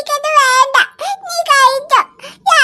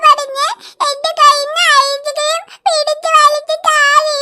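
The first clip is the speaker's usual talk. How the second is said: crying complaint. Acted. Girl tells dad what her brother said, crying. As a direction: wail out the injustice.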